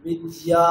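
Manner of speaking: বিদ্যা with the final আ held long; বিদ্যা with a lengthened last vowel. Shown as a demonstration. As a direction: draw out the end of বিদ্যা. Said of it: "দীর্ঘ করতেই হবে".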